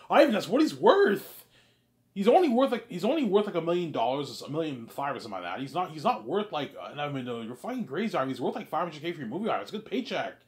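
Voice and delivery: high, loud, exasperated; Peter arguing. Acted. Peter telling Ivan what the actor is worth, high and loud. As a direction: insist he's only worth a million.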